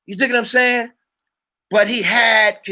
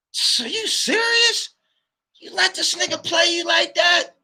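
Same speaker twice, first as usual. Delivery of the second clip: can't believe you got played, let it ring out; incredulous outrage; 10 semitones higher than usual. Confronting his partner who let himself be played, high incredulous yell.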